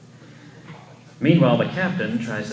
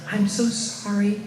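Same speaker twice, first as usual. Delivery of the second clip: lightly voiced Snow White; 8 semitones higher than usual. A narrator's reading. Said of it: "Snow White says".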